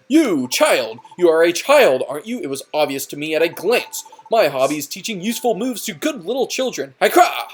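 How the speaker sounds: boisterous wrestler Hotula. Acted. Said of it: "Here we have Hotula".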